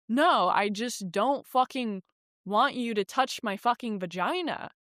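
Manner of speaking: slow, hammered, fed-up insistence; firm refusal. Retold or imitated. Retelling refusing the healer's touch, slow and fed up. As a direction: spell it out slowly, fed up.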